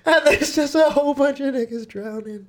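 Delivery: way up high, squeaky and goofy. Pretend. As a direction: pitch it up into a silly squeak. Joking about sequels, squeaky voice.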